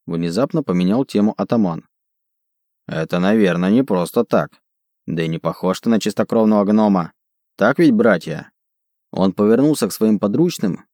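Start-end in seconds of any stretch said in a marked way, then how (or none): 2.9-8.5 brute rallying his gang; broken Dwarvish. Acted. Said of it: "на ломаном языке гномов".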